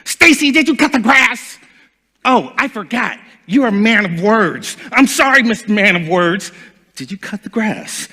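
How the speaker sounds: mock-sweet nagging with a sarcastic edge; sarcastic nagging wife. Ex-wife nagging him about the grass, mildly sarcastic. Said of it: "used to call me when she got mad".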